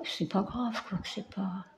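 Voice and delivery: finir la phrase en s'effaçant; voix qui s'éteint. Real, not acted. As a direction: laisser mourir la voix. (la voix s'éteint doucement)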